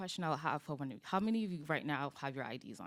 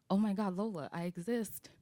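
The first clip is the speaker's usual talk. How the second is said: lighthearted; 4 semitones higher, 5 dB louder than usual. Retold or imitated. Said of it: "she kinda said it lightheartedly".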